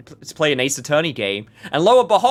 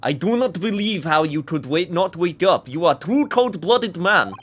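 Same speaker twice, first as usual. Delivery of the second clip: put-on shitty Russian accent; 3 semitones higher than usual. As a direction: scold the suspect in a cheesy Russian accent. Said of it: "I finally get to do my shitty Russian accent".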